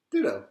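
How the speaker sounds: Ditto said as DIH-doh; wrong pronunciation. Shown as a demonstration. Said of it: "It's not Ditto, it's Dido".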